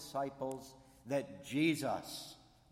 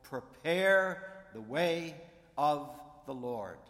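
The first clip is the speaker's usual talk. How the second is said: proclaiming prophet; 3 semitones higher, 8 dB louder, slower than usual. Retold or imitated. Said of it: "says to Israel".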